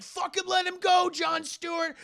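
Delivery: high, loud yell of a line; shouted demand. Retold or imitated. Retelling a film fight to chat, shouted demand.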